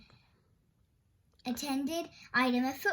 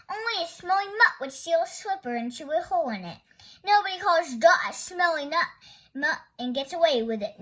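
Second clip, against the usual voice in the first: loud quarrelling retort; angry; 3 semitones higher, 8 dB louder than usual. Acted. Friends trading insults about the dog, loud. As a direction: bite back in the fight.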